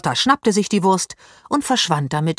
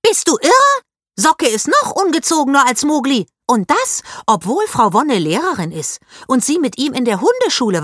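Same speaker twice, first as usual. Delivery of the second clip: put-on much higher and louder, indignant girl ranting; outraged shriek; 7 semitones higher, 4 dB louder than usual. A narrator's reading. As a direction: shriek it, then keep scolding hotly. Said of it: "Paula stieß einen Schrei aus".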